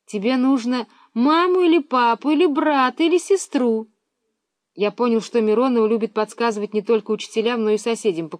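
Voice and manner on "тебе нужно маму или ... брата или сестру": raised phone voice. A narrator's reading. Миронова shouting on phone.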